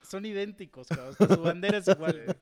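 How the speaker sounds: loud laughing jab; laughing retort. Retold or imitated. Teasing the Argentine about his flag, laughing loudly. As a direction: crack up while landing the insult. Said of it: "le digo".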